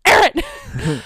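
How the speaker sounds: high, loud call; kid calling out. Retold or imitated. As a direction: call her name urgently. Kid calling mom urgently.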